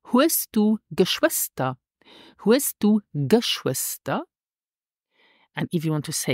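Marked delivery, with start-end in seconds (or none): 0.0-1.8 slow model phrase. Shown as a demonstration. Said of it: "is in Luxembourgish". 2.5-4.2 slow model phrase. Shown as a demonstration. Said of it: "is in Luxembourgish".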